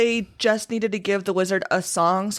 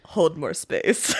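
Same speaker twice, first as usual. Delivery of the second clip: dramatic theater quote; slower than usual. Retold or imitated. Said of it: "I wanted to quote".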